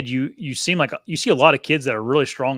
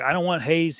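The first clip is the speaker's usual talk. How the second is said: imitating son; 5 semitones higher than usual. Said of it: "he's like".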